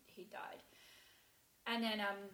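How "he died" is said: barely voiced, words breathed out; whispered. Real, not acted. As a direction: let the words fall away into a whisper. Realising her husband had died.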